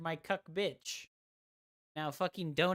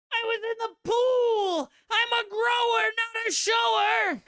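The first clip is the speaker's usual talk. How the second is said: much higher, yelled defense; shrill mock shout; 10 dB louder than usual. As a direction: scream it, much higher and louder.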